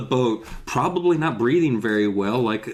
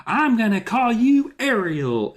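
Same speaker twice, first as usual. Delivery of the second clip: naming the mermaid; 10 semitones higher, slower than usual. Retold or imitated. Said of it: "it would be like".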